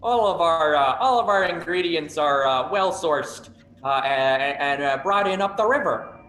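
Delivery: lightly voiced chipper Midwestern host; a hint of a bright Midwestern host. GM voices food court host.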